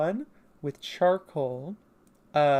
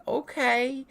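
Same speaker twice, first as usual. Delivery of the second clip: high-pitched acted agreement; Penta; 10 semitones higher than usual. Newcomer agreeing to follow, high character voice. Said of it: "And then Penta's like".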